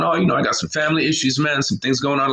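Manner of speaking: fast, casual confiding reply; fast mild buddy voice; lightly voiced friend. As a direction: rattle off troubles breezily. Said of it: "how we talk in America".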